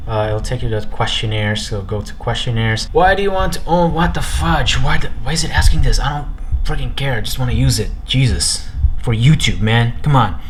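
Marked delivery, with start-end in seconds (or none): 2.9-10.4 frustrated outburst. Real, not acted. Annoyed by setup questionnaire.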